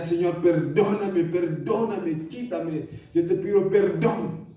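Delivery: pleading prayer in tears. Retold or imitated. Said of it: "Me tumbé al suelo y llorando".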